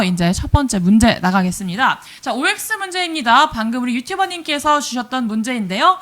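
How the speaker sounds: upbeat quiz host announcing; game show host. Acted. Hosts OX quiz for viewers.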